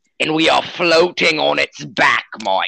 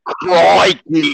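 mock Australian accent. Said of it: "he's Australian, if you can't tell".

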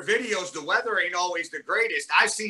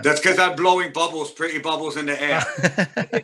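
hammed-up, badly faked East London; jokey East London accent, slowing at the end; 2 semitones lower than usual. Film fan quoting a hooligan chant, bad East London accent. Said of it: "fucking worst East London accent ever".

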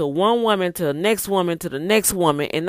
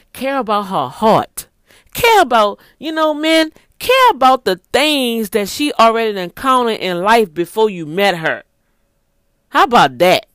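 louder and higher, pressing the point; preaching emphasis; 4 semitones higher, 6 dB louder than usual. Real, not acted. Preacher urging men to care, loud and high. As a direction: drive it home to the men.

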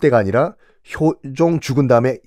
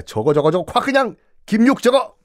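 sputtering king, rising to a higher burst; mock fury; 6 semitones higher than usual. King Hyojong fuming at Kim Yuk, mock rage. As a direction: fume at the minister. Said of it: "효종이 격분합니다".

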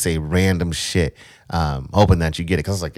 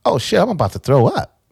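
alarmed; 9 semitones higher, 5 dB louder than usual. Retold or imitated. Sudden nausea, retold.

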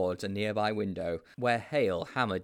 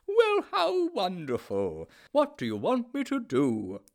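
much higher, louder gushing headmaster; delighted headmaster; 11 semitones higher, 5 dB louder, slower than usual. A narrator's reading. The headmaster praises the boys' newspaper piece, gushing. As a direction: gush with delight.

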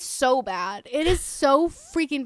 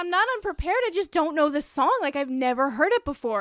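higher-pitched, acted-out protest; screaming match, toned down; 4 semitones higher than usual. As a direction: defend yourself in a mock quarrel, not shouting. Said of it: "it is a screaming match".

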